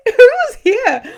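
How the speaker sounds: laughing question. Real, not acted. Laughs while asking audience.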